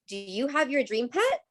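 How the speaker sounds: "Do you have your dream pet?" with the pitch climbing on "pet"; rising question tune. Shown as a demonstration. Teacher showing students how questions rise at the end. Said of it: "it goes up".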